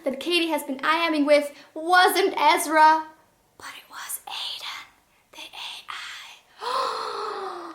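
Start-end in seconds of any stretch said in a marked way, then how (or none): 3.6-7.7 hushed, slow reveal; dramatic whisper. Acted. The reviewer revealing the book's twist to viewers, whispered.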